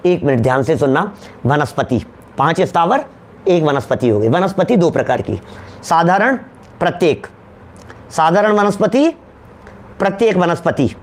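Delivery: low, measured delivery in short separate phrases; slow, careful explanation. Real, not acted. Teacher asks class to listen closely, slow careful explanation. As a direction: spell it out piece by piece, pausing between terms. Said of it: "धीरे धीरे बोलता हूँ".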